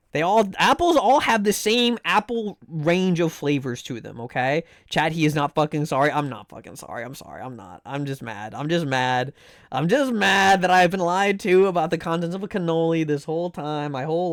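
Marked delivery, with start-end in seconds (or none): 6.1-8.6 muttered aside. Real, not acted. Muttered aside after chat's remark.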